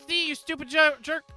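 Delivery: high, loud scornful jab; angry insult. Acted. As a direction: spit the insult. Insulting the defense lawyer.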